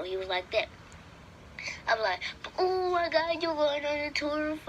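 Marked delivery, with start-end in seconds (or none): 2.6-4.6 high-pitched amazed gush; excited disbelief. Retold or imitated. Child reacting to brother joining the tour, high excited gush. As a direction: gush it high, thrilled by the news. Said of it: "I was so excited".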